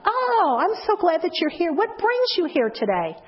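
high, gushing oh then warm question; delighted welcome. Shown as a demonstration. Greeter meeting first-time visitor, high delighted welcome. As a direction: sound thrilled they came. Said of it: "What do you say to them?".

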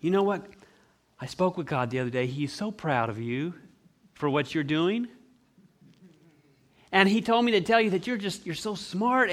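lightly voiced, encouraging grandma; calm grandma impression. Devil posing as Grandma to flatter, calm and encouraging. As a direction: mildly imitate a grandma praising gently. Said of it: "do a great impression of Grandma".

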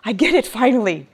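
a hushed, humbled Habakkuk; awed realization. Retold or imitated. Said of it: "he's like".

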